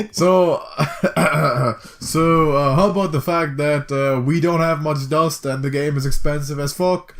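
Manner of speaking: put-on disgruntled British accent; grumpy Brit complaining. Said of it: "I wanna sound like a disgruntled Brit".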